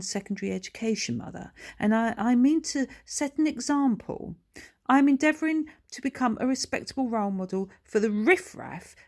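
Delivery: lightly voiced pompous snob, fast; pompous posh boy. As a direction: lecture her from on high. Posh son lecturing mother.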